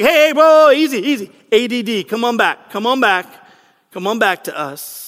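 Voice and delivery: mock soothing, easing down to a coaxing finish; calming someone down. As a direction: act out reining in an overexcited friend. Crowd calming the excited man.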